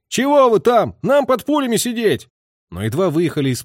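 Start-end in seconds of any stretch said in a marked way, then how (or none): 0.1-2.3 much higher, louder yell from afar; shouting. A narrator's reading. Drivers shouting at gun crew, impatient yell. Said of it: "ездовые уже кричали".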